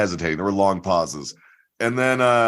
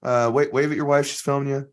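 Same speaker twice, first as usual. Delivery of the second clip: patient comedian; 3 semitones higher than usual. Retold or imitated. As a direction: talk a nervous volunteer through it kindly. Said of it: "So David Cross is like".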